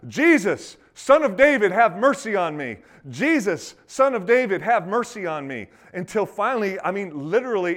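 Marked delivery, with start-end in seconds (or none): 0.1-5.7 loud, high-pitched plea, easing slightly; crying out. Acted. Blind beggar calling to the passing rabbi, crying out. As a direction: call out for mercy over a crowd. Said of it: "he begins to cry out".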